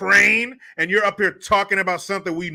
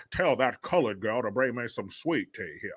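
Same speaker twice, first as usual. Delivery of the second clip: low Mitch impression; 6 semitones lower, 8 dB quieter than usual. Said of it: "he still says something like".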